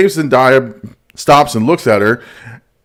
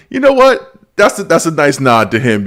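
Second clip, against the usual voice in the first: excited quote; 4 semitones higher than usual. Retold or imitated. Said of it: "And so I was like".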